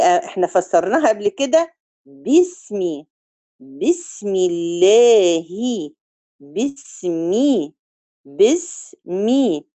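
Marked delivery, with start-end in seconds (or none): 2.1-9.7 باسمي with a clear kasra on الباء, said slowly; slow pronunciation demo. Shown as a demonstration. Teacher modelling the kasra for students, slow. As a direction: linger on each syllable of باسمي. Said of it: "الباء في كلمة بسم الله".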